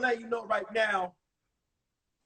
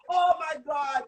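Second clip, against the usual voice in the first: mock panicked wailing, higher pitched; panicked mother; 4 semitones higher, slower than usual. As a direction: imitate a frantic mom, drawn out. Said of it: "I could hear my mother".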